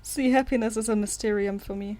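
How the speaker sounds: flat robot monotone; deadpan like a machine; robotic voice. Acted. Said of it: "such a robotic voice".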